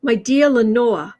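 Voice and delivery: slow, theatrical gothic recitation breaking into a laugh; half-laughing melodramatic poet voice; mock Poe voice. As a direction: ham up a mournful poet, laughing through it. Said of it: "He probably didn't sound like that".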